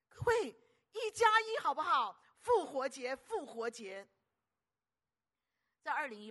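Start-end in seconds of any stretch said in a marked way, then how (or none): 0.1-4.1 high, loud call to the crowd; preacher loudly pushes the one-plus-one campaign; rallying call. Real, not acted. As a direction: whip up the congregation. Rallying the congregation.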